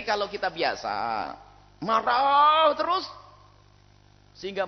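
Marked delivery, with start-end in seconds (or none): 1.8-3.1 loud, high, slow angry burst; mock angry. Preacher mimicking a husband always angry. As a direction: act out a hot temper. Acting out constant anger.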